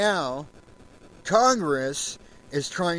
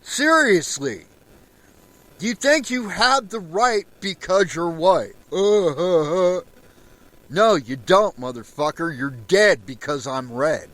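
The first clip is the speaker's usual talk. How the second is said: louder, heated and jabbing; angry rant; 3 semitones higher, 5 dB louder than usual. Real, not acted. Telling off white racists, heated and loud. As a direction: keep the anger boiling.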